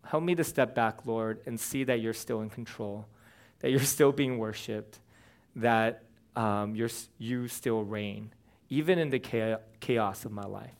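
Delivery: soft, hushed prayer to the Lord; humble murmured prayer; quiet prayer. Retold or imitated. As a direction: pray it softly, stepping back from the chaos. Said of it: "some of it's just saying".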